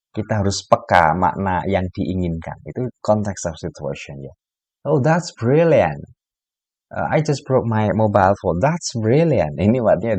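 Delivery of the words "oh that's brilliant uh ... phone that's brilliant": mock cheer that means terrible; sarcastic praise. Shown as a demonstration. Teacher playing the native speaker replying sarcastically.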